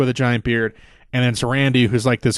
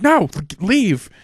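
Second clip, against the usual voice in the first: higher, louder, slow hammed-up "leave"; mock angry outburst; 9 semitones higher, 4 dB louder, slower than usual. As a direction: imitate a boss losing it, half-jokingly. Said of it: "And Shane blows up".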